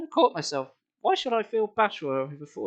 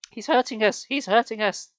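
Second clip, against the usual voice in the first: put-on shouting girls; 4 semitones higher, 4 dB louder than usual. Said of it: "the girls shouted".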